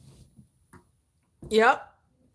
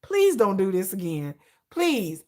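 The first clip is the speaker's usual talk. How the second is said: mock begging; 4 semitones lower than usual. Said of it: "I'm begging Hype".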